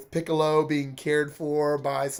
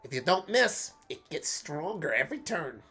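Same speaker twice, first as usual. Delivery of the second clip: Bugs Bunny voice; 3 semitones higher than usual. Acted. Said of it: "going for a Bugs Bunny sort of sound".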